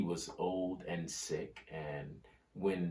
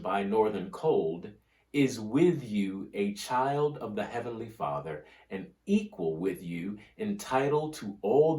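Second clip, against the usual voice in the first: oratorical speech reading; 3 dB louder than usual. Acted. Reading Sumner's speech aloud.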